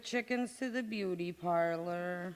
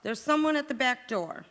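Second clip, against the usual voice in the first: urgent call; 4 semitones higher, 6 dB louder than usual. Acted. Liz in sudden alarm.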